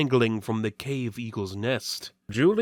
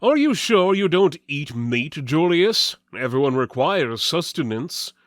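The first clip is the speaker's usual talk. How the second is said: louder, higher, jovial coaxing; hearty warrior voice; 4 semitones higher, 6 dB louder than usual. Acted. Waltiver urging Julius to eat, jovial and loud. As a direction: press food on a friend. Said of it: "Waltiver said".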